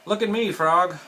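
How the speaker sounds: high, loud boastful call; storybook shout. A narrator's reading. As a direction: call out proudly to a friend. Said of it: "shouted Toad".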